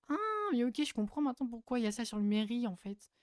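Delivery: long high-pitched "ah" as it clicks; the penny drops, then words tumble out; real aha moment; sudden realisation. Real, not acted. Sudden realisation about a detail.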